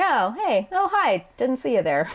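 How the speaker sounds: high oh-hi dropping to offhand; casual rudeness. Acted. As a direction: snub the best friend with breezy sass. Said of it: "casual rudeness in response".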